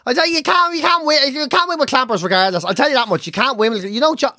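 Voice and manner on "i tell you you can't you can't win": high, drawn-out exasperation; exasperated disbelief. Real, not acted. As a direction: draw it out in high-pitched dismay. Reacting to the story in disbelief.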